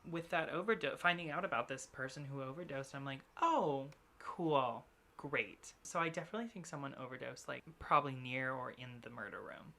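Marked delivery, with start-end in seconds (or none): 3.4-5.7 mock-pleased, sinking into deadpan; sarcastic dismay. Reacting to grim basement news, sarcastic. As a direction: drily pretend to be fine with it.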